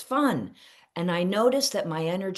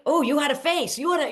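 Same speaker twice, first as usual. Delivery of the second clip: high, loud mock accusation; mock accusing partner; 10 semitones higher, 4 dB louder, faster than usual. Wife teasing her partner about a morning face, hammed-up high accusation. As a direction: imitate a partner huffing about your face.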